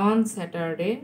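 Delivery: slow, spaced-out words; slow dictation. Real, not acted. Teacher giving students the answer to copy, slow dictation. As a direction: dictate it slowly for pupils writing it down. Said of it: "আমি খুব আস্তে আস্তে বলছি".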